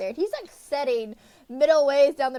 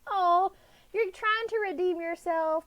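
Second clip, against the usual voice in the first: lightly higher, teasing voice for her own retort; mock snarky quip; 7 semitones higher than usual. Reader mocking Dane's redemption with a snarky quip. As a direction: toss it off as a mock jab at him. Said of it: "And I'm like".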